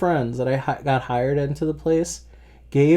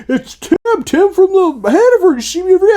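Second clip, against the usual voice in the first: much higher, louder put-on voice; caller's voice; 7 dB louder, faster than usual. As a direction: pitch it way up like an eager stranger. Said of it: "He's like".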